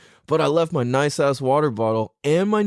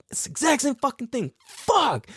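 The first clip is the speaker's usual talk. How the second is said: pitched way up in mock despair; exasperated groan; 12 semitones higher than usual. To himself as the same pitch starts, high exasperated whine.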